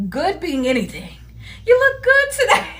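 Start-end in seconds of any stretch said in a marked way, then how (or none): 1.7-2.7 softened opener. Shown as a demonstration. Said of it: "I soften it".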